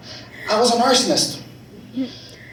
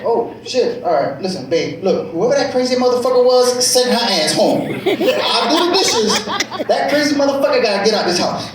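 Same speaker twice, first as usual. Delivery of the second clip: placating husband; 4 semitones higher than usual. Retold or imitated. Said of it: "I'm like".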